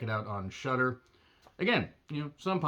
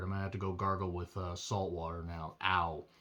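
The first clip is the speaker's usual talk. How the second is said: strained, hoarse after shouting; throat hurting from demon voice; sore hoarse throat; 5 semitones lower, 5 dB quieter than usual. Real, not acted. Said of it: "doing the demon voice is really goddamn hard".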